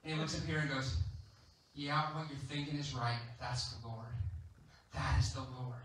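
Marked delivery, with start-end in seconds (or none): 1.7-5.8 knowing smile. Acted. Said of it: "John giving this big old smile".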